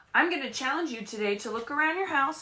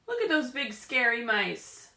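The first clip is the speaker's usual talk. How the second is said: mock scared. Cat sees the scary mice.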